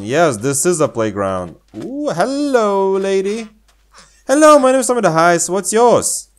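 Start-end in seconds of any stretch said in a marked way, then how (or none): 1.8-6.3 put-on high, bright-eyed kid introducing herself; girly character voice. Greeting the lady as a high-voiced girl character. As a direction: squeak it like a cheerful little girl.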